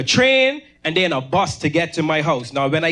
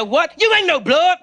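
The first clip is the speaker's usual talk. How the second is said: incredulous echo; 10 semitones higher than usual. Retold or imitated. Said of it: "I said".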